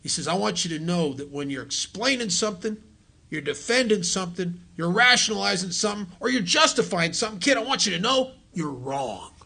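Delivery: put-on a gruff old-timer's voice; rough, blunt old-timer advice. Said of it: "this is a gruff voice".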